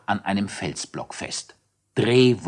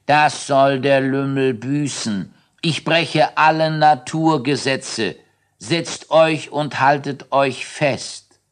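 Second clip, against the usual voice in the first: high, loud outraged shout; shouting Drehwurm; 6 semitones higher, 4 dB louder than usual. Acted. Drehwurm shouts at the rude moon man in outrage. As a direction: bellow his threat at the moon man. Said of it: "Er schrie".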